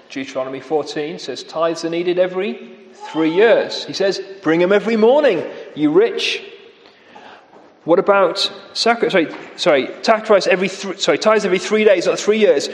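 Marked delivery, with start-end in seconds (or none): 4.4-6.4 fast, sneering dig; mocking jibe. Amos jeering at the rich, fast and scornful. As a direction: rattle it off with contempt. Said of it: "he really mocks them".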